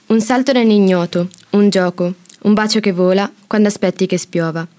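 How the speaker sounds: measured reading with short phrases and pauses; each phrase set apart, falling at the close; poem recitation. Acted. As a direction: read your own poem aloud, line by line. Student reads her poem.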